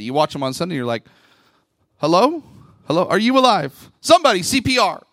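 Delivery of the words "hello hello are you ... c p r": mock alarm. Mock checking a motionless churchgoer.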